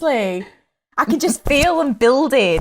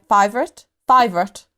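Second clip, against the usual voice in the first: imitated South African clip, lower; South African accent; 4 semitones lower than usual. Guest recalling a TikTok, South African accent. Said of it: "trying to think of that TikTok".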